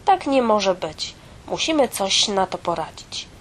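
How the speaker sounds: mock outrage, bright and firm; the mouse gets indignant on the fairy tale's behalf. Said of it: "oburzyła się myszka".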